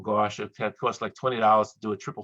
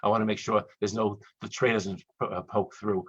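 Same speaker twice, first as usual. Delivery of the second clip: pleading prayer. Retold or imitated. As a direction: beg it out half-joking. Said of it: "the prayer is this".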